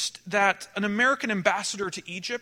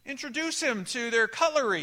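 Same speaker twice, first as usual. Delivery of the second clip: mock taunting; 4 semitones higher than usual. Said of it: "You can start yelling and saying".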